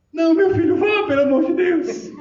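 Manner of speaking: high, laughing mock mother; hammed-up mother shooing son off; imitated mother, pitched high, with a laugh; mother's laughing plea.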